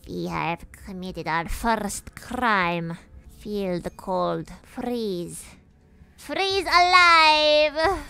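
put-on slow, menacing evil-child voice with a rising end; villain kid voice. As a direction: savour each word like a little villain. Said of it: "like, a voice".

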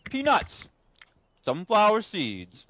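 chewing while naming; mouth full. Real, not acted. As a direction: talk through a mouthful. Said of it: "So glad you're chewing".

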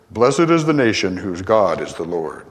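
broadcast voice. Retold or imitated. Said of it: "a voice would say".

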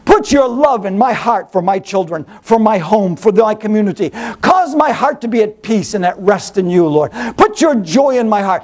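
hushed earnest prayer. Acted. Opening prayer.

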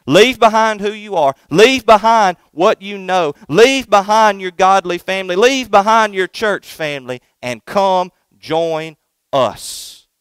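enticing sinners. Acted. Sinners luring the young son away, slow tempting call. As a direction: coax the boy away like a tempting gang. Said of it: "That's what they're saying".

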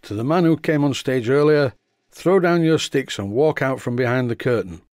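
hammed-up faith healer call; loud theatrical voice. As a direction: proclaim it to the hall like a showman. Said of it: "in a very loud theatrical voice".

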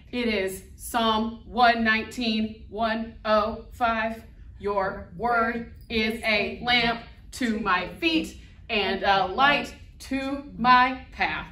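slow, even robot voice. Shown as a demonstration. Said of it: "we're gonna do it in a robot voice".

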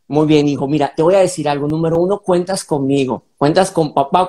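steady the son with calm; calm father reassuring his son. Shown as a demonstration. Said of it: "mira lo diferente".

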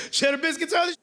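hyped fan. Retold or imitated. Biscuit fan comment again.

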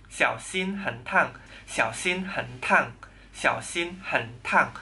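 小心很烫 spoken slowly and clearly; slow model sentence. Shown as a demonstration. Teacher drills 小心很烫 for students, slow and clear. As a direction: drill it slowly three times. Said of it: "kalian ngomongnya".

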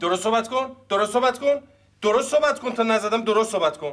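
insistent repeated reprimand; stern scolding. Acted. Detective repeatedly orders the rude boy to watch his mouth, stern. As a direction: keep pressing the order to speak properly.

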